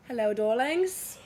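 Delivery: slow, sultry priestess greeting. Acted. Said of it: "I'm always in my priestess energy".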